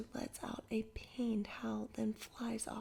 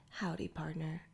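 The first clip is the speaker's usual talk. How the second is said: a lightly lowered, mock cowboy drawl; tough guy drawl; 4 semitones lower than usual. Jack greeting Dirk like a Wild West tough guy, mock drawl. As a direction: play the hard gunslinger, half-joking. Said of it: "in my toughest tough guy drawl".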